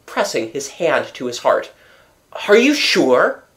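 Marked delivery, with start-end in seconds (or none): 2.5-3.4 higher, disbelieving question; shaken disbelief. A narrator's reading. Raoul questions the commissary's news, shaken and disbelieving. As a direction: plead for it to be untrue.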